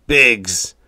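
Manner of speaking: loud dismayed cry. A narrator's reading. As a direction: gasp out the name. Skipper's dismay at the name.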